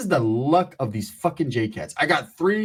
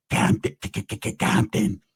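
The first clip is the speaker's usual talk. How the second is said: stuttering; 6 semitones lower than usual. Retold or imitated. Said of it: "I say".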